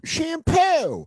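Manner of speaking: very high, drawn-out one-word impression; high-pitched catchphrase call, stretched long; Joe DeRosa. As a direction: squeal the word out slowly. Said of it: "my one word impression of Joe DeRosa".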